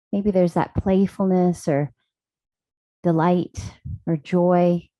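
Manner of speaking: calm, even voice with long pauses; guided meditation. Real, not acted. Yoga teacher settling the class into stillness, calm guided meditation. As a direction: ease them into stillness, leaving space between phrases.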